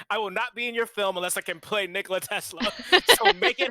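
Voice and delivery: high, loud, hammed-up demand; a singer. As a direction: play an insistent star laying down terms. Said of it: "Bowie was like".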